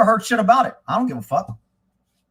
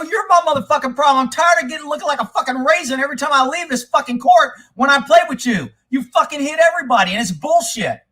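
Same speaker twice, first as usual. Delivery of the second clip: angry; 4 semitones higher than usual. Retold or imitated. Heated retort in argument.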